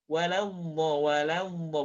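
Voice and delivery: "waladdo" with open la then heavy do; pure A in "waladdo" before a thick ending; perfect la, thick do. Shown as a demonstration. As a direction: model "waladdo", only the last syllable rounded. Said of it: "La-nya sempurna".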